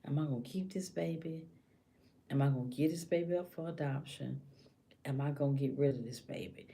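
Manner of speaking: softly acted deliberation; asking herself. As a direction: weigh it quietly, as if alone. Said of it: "a woman will ask herself".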